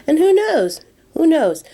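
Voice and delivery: high, loud wondering; playful who-knows; excited. Real, not acted. Excited rhetorical question.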